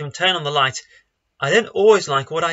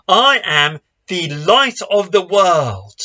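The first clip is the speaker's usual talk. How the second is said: slow, loud cry of I am; loud proclamation; 2 semitones higher, 5 dB louder, slower than usual. Acted. Jesus crying out to the crowd, loud and slow. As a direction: proclaim it slowly to the whole festival. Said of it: "Jesus cries out in a loud voice".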